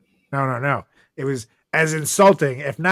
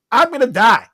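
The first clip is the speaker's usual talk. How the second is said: mock panic; 9 semitones higher, 6 dB louder than usual. Rat at top of stairs.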